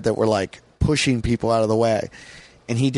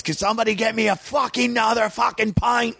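higher, sing-song mock British demand; British comic voice; 10 semitones higher than usual. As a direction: belt it out like the cheeky British comic.

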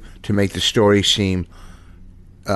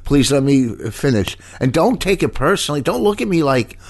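higher, insistent irritation; irritated; 6 semitones higher than usual. Real, not acted. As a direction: push back, annoyed. Arguing with co-host.

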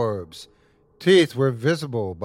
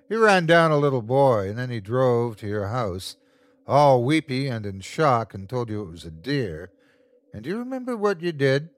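gloating demon relishing fear; sinister creature. Acted. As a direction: savour every word like a monster. Creature voice in story.

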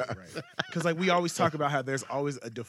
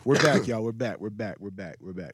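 fading announcement; 3 semitones lower, 4 dB louder than usual. Real, not acted. Host repeating, trailing off.

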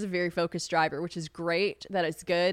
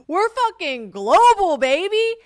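loud, high, drawn-out hype yell; exuberant, hammed-up celebration; triumphant shout; 12 semitones higher, 11 dB louder, slower than usual. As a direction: crow it like a big victory. Celebrates having a listener abroad.

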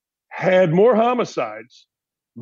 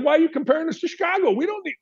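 much higher, fast, indignant protest; mock indignant; 11 semitones higher, faster than usual. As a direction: fire it off like an offended city. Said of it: "I'd be like".

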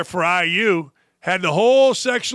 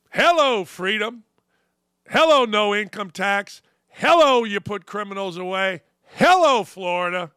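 exclaiming Hello. Real, not acted. Celebratory Hello refrain.

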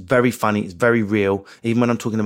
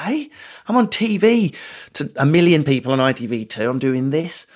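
indignant outburst; 4 semitones higher than usual. Retold or imitated. His own exasperated inner voice.

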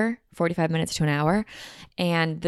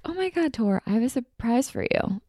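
mom's voice; 6 semitones higher than usual. Retold or imitated. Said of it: "my mom a couple weeks ago was like".

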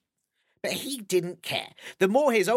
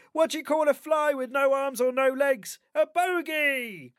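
nervous joke teller; 7 semitones higher than usual. Acted. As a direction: stretch out the punchline hopefully. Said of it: "They'd say things like".

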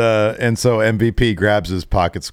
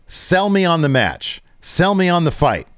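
higher, demanding mock Brock; Brock impression; 9 semitones higher than usual. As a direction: push him to sell the fight. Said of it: "And Brock says".

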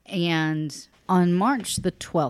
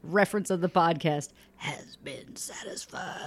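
creepy announcer. Pretend. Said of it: "Can you do it like".

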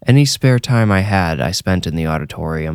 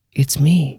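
put-on higher, small child's voice; young boy voice; 8 semitones higher than usual. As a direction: speak like a little kid. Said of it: "Again, the kid said".

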